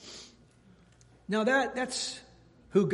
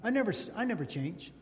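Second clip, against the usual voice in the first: stubborn, softer chin-jutting insistence; chin out defiance; 2 semitones higher, 5 dB quieter than usual. Acted. Preacher showing God with his chin out, mild stubborn insistence. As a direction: push the chin out and refuse to budge. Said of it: "putting his chin out there".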